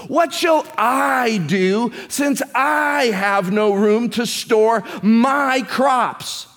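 shall leaned on, slow and rising; emphatic slow reading. Shown as a demonstration. Preacher stressing the rich man's question, slow. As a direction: read it slowly, pressing shall. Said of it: "This is my emphasis on this".

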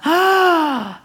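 a high, loud gasp of wonder; joyful gasp. Retold or imitated. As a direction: gasp with sudden delight at the baby. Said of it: "They saw Jesus and just went".

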